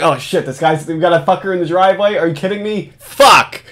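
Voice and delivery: hammed-up startled cop cutting a call short; imitating Hansen on the phone. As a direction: caught off guard, swearing then brushing off his girlfriend. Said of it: "and then he's like".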